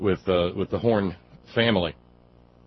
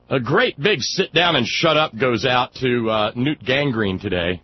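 mock dedication; 3 semitones higher, 6 dB louder than usual. Real, not acted.

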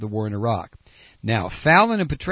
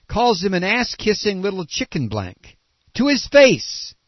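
indignant rant; 4 semitones higher, 4 dB louder than usual. Real, not acted. Host's rising outrage at Petraeus.

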